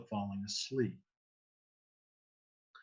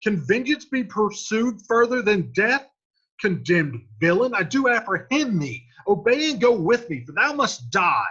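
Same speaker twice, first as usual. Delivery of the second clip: much higher and louder, hollering; 8 semitones higher, 7 dB louder than usual. Acted. Paris challenging Romeo at the tomb, hollering. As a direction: holler him down from across the graveyard. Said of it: "hollers at Romeo".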